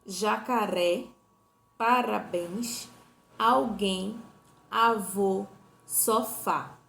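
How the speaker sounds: "Jacaré, parabéns, alguém, avô, sofá" loud and deliberate, leaning on each last syllable; word-by-word list, final syllable of "Jacaré, parabéns, alguém, avô, sofá" held longest; tônica na última sílaba. Shown as a demonstration. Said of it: "a sílaba que eu demoro mais pronunciando". ("Jacaré, parabéns, alguém, avô, sofá": palavras pausadas, demorando na última sílaba)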